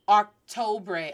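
slow Octobre as "ahk-TOE-bray"; wrong vowels. Shown as a demonstration. Teacher showing learners what to avoid, English-vowelled Octobre.

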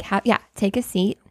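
mildly imitated composed TV host; understated, unruffled invitation; calm, composed. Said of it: "He has just a very calm".

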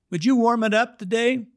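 mock high Fred voice; high-voiced Fred. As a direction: chirp it up high like the old man. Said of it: "now he doesn't talk like this".

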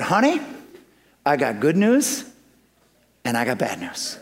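high, rising sing-song honey; butter her up with a high Honey; sweet high honey. Retold or imitated. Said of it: "here's how I said".

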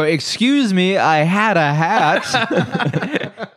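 put-on timid old-timey gentleman. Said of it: "And then you go".

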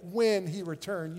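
WHEN leaned on, slow, falling away after; slow emphatic WHEN; stress on WHEN. Shown as a demonstration. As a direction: stretch and stress the word WHEN. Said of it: "Not if".

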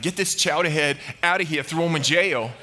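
put-on Boston mob boss accent; Boston gangster. Ahab sending Micaiah to jail, Boston gangster accent. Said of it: "old school gangsters with Boston accents".

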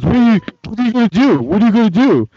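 rapid-fire mock taunt; mocking challenge. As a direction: imitate someone squaring up, high-pitched. Retold customer challenging the man.

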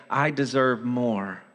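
low, subdued grumble; grumbling complaint. Acted. Voice of sin in the sufferer's heart, mildly grumbling. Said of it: "you begin to grumble and complain".

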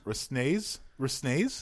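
Resnays said with a questioning rise, the S sounded; unsure try at Resnays. Shown as a demonstration. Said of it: "but what's that S for?".

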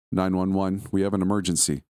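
lightly voiced frightened woman reciting the emergency line; shaky female caller. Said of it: "said a shaky female voice".

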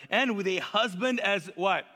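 acted incredulous scoff, rising to a loud finish; hammed-up scornful disbelief. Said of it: "She scoffed at herself and she said".

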